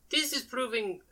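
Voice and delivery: playfully measured in-character musing; puzzled character. Acted. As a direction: draw it out high, mock-puzzled. Voicing Jocasta mid-fight.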